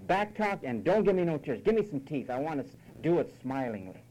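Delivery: brisk, no-nonsense order, acted; mock paternal command; stern fatherly authority. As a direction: lay down the law like a father. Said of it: "spoken to with authority and said".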